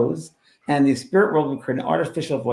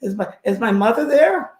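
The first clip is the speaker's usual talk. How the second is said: shocked; 10 semitones higher, 5 dB louder than usual. Retold or imitated. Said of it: "I was, like, shocked".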